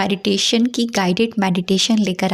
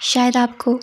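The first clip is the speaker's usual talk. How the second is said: measured meditation guidance with long pauses; guided meditation. Acted. Teacher guiding listeners into a five senses meditation, measured guided-meditation delivery. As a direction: lead listeners through it unhurriedly, phrase by phrase.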